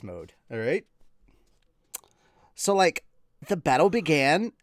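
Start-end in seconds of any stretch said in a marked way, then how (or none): 2.5-3.0 high, loud put-on reading voice; character voice. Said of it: "I know I'm doing this voice". 3.5-4.5 character voice. Pretend. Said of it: "I know I'm doing this voice".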